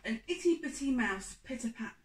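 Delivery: put-on lilting read-aloud voice for children; storybook reading. A narrator's reading. Reading a picture book to young listeners, lilting.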